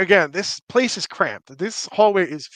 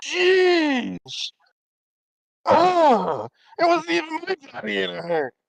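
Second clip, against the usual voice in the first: put-on 1 New York accent; 11 semitones higher, slower than usual. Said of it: "New York accent on that last bit".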